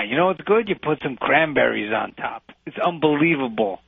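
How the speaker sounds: lightly heightened, chatty Brooklyn regular; chummy Brooklyn customer. Shown as a demonstration. Coach shows student how to order pizza, chummy Brooklyn swagger. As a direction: schmooze the counterman like a Brooklyn local. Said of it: "This is how I order a slice of pizza".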